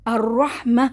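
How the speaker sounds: الرحمہ slowly drawn, ending in a breathy ہ; pausal recitation. Shown as a demonstration. Teacher showing the pause on الرحمہ. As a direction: stop on الرحمہ and let the ہ breathe out. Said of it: "ہوا آپ کی باہر آنی چاہیے".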